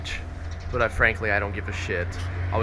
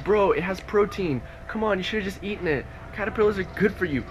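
mocking commenter; 7 semitones higher than usual. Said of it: "don't fucking comment and be like".

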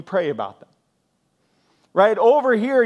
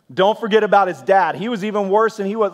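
acted-out grievance, louder and higher; escalating rant; 4 semitones higher, 5 dB louder than usual. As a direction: pile on the blame with rising heat. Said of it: "it's an escalating description".

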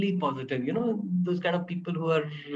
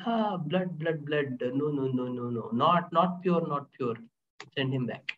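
fading, softer muttered chief voice; cannibal chief; 4 semitones lower, 4 dB quieter than usual. Retold or imitated. Cannibal chief rejecting the king, lightly voiced and fading. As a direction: sniff out the blood and reject it. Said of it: "the chief said".

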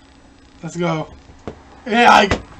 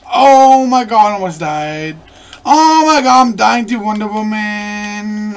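panicking gamer; 4 dB louder than usual. Real, not acted. Dying in the game fight.

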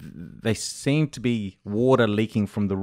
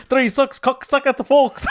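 high, giggling fumbled words; laughing garbled twister; 12 semitones higher, 4 dB louder than usual. Retold or imitated. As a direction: laugh through a botched twister. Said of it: "And all I'll be saying".

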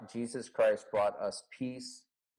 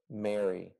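tender name. Retold or imitated. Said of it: "Jesus said to her".

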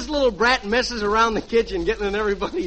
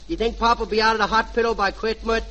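put-on little boy. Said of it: "and I'll be the little boy".

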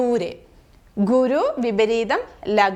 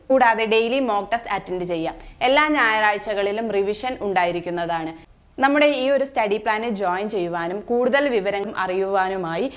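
fast promo read; 2 semitones lower, much faster than usual. Acted. Promo read for study plan.

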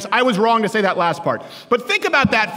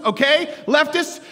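building rant; 8 semitones higher, 3 dB louder, slower than usual. Acted. Comic rant to crowd.

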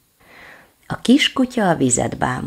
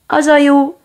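little dog voice; 12 semitones higher, 8 dB louder than usual. Acted.

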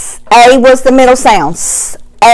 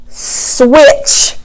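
softly blended word; 3 dB quieter than usual. Shown as a demonstration. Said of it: "hard one".

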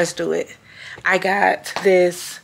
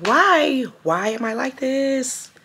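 higher, plaintive near-tears voice; about to cry; 4 semitones higher, slower than usual. Real, not acted. Exasperated at crying on camera again, near tears. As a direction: push the question up, on the verge of crying. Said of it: "I'm about to cry again".

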